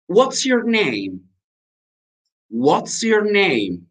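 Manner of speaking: slow, high-pitched teacher demo; drawn-out English lesson question; slow model phrase. Shown as a demonstration. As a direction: say it slowly for learners, drawing out each word.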